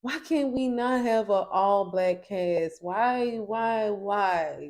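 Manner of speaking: indignant rant. Retold or imitated. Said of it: "I'm like".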